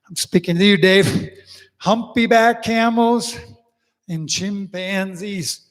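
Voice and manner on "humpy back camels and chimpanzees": slow demo. Shown as a demonstration. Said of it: "this is what we're doing".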